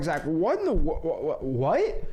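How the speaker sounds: a viewer baffled by the script; incredulous viewer. Pretend. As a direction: play the shocked doubter, pitch jumping up on "stupid". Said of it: "Now, I might be like".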